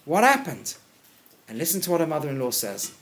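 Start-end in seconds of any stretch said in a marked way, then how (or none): 0.0-0.7 high, loud amazement at the load of grain; shocked. Retold or imitated. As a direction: gasp it out as a stunned mother-in-law. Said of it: "she's shocked".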